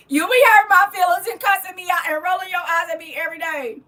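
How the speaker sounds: high, loud playful protest; exaggerated aggrieved outburst; mock-hurt complaint. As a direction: wail a hammed-up grievance. Playful hurt-feelings complaint to viewer.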